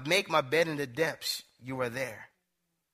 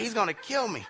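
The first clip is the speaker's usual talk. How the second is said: higher-pitched retold alarm; mock panic; 5 semitones higher than usual. Passenger to himself as driver speeds into curve, mock panic. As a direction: fret like a worried passenger, playfully.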